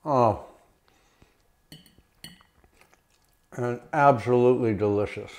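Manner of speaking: talking through a mouthful of food; chewing while speaking; mouth full. Real, not acted. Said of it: "Sorry, I'm talking with my mouth full".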